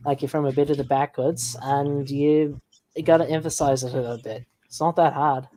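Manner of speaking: Australian-style backwoods British accent; hick British accent. Shown as a demonstration. Explaining how to fake Australian to co-streamers, hick British accent. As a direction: exaggerate a rustic British accent a little. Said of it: "make it a bit more hickish".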